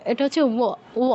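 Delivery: "ও" said as wo, like an English W; W-like sound. Shown as a demonstration. Teacher correcting ba to wa, W-like sound. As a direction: round into "ও" with a w glide. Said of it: "ডব্লিউর মতো উচ্চারণ অনেকটা".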